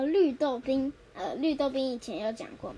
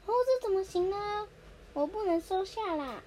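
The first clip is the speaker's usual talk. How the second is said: higher, fussy mother protesting; polite refusal; 7 semitones higher than usual. Acted. Nobita's mother politely refusing the guest's gift, higher and fussy. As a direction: fuss like a mother declining a gift.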